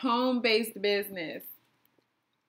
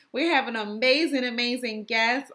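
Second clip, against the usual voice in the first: "amazing, amazing guest" said while chewing gum. Real, not acted. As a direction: chew gum through "We have an amazing, amazing guest". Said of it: "I got this gum in my mouth".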